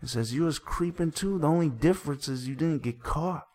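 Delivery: dramatic recitation. Acted. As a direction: act out each side of the quarrel while narrating.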